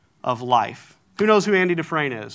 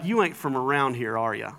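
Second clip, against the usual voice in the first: local drawl; 4 semitones lower, 4 dB quieter than usual. Retold or imitated. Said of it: "That's how we'd say it here".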